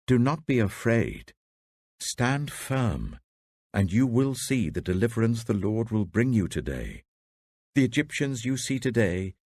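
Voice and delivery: rally a scared crowd; firm reassurance. Acted. Moses reassures the frightened people.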